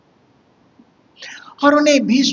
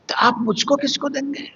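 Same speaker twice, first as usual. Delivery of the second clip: Nachiketa; 5 semitones higher than usual. Retold or imitated. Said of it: "छोटा बालक नचिकेता".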